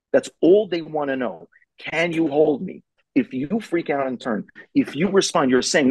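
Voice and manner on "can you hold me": put-on high, slow child's plea; pleading child. A child testing a parent asks, high slow plea. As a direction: ask it like a small kid needing to be held.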